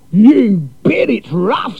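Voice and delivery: loud cheery Aussie, drawn out; brash Aussie cousin. A narrator's reading.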